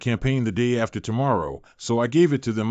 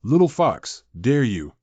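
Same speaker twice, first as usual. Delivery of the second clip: teasing. Acted. Teasing lover's challenge.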